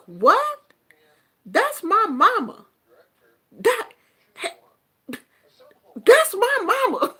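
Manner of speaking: high-pitched mock outrage; mock indignant son. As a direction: imitate a son indignantly correcting his friend. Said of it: "my son got so mad".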